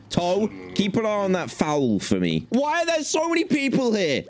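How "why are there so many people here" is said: very high panicked squeal; mock panic. Swamped by customers, a very high panicked squeal. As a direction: shriek it in comic dismay.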